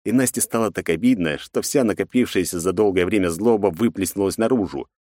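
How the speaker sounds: ordinary delivery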